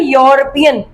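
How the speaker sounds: यूरोपियन with an audible "yo" onset; opening Y sound. Shown as a demonstration. Teacher repeating the example for students, यूरोपियन with Y onset. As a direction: begin यूरोपियन on a clear Y. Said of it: "वाई का sound आ रहा है".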